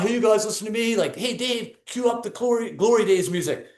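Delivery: mock hype speech. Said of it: "That's not".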